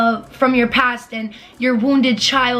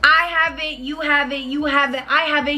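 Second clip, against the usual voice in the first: mocking quote. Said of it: "Where is".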